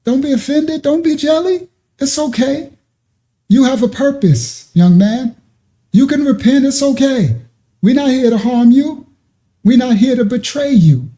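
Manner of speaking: retelling comforting words to the offended brother; retold reassurance. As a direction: soothe him, tell him it's okay. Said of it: "And I said".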